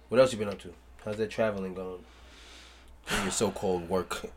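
muffled behind a face mask; through a face mask. Real, not acted. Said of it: "I'm wearing a mask right now".

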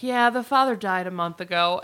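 understated, offhand retelling; nonchalant. Retold or imitated. Joe telling her date the father died, nonchalant. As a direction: toss it off casually. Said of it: "very nonchalantly".

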